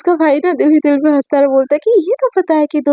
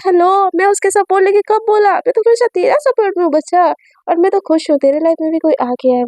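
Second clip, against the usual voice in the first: brother's voice; 4 semitones higher than usual. Acted. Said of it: "तो उसका भाई बोलती है".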